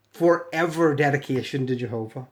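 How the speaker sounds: usual speaking voice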